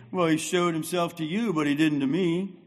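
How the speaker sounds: self-pity. Retold or imitated. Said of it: "self-pity".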